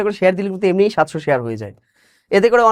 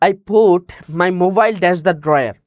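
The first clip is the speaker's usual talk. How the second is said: slow dictation; much slower than usual. Shown as a demonstration. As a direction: read out very slowly, word by word. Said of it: "reading the question aloud". (ধীরে ধীরে প্রশ্ন পড়া)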